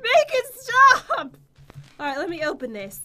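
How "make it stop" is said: plea. Real, not acted. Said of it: "This is really creepy".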